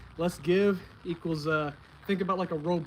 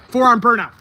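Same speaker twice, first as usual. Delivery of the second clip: excited announcement; 5 semitones higher, 14 dB louder than usual. Real, not acted. Announcing the next exercise.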